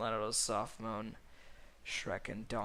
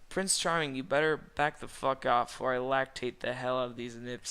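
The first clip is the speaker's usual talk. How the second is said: a hammed-up tough-guy warning; snapping wolf; 5 dB louder than usual. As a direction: snap it at him like a jealous rival. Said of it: "say the wolf as he snaps".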